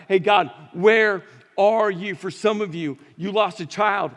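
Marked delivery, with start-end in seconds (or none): 0.1-2.2 loud, slow desperate plea; crying out to God. Retold or imitated. Abandoned child crying out to God, slow loud plea. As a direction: call out to God, drawn out. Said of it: "you screamed out to God".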